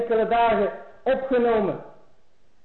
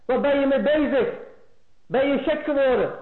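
angry wife; 5 semitones higher than usual. Retold or imitated. Wife scolds husband over his mother.

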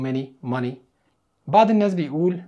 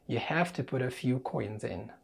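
slow soft model sentence; 3 semitones lower, 10 dB quieter, much slower than usual. Shown as a demonstration.

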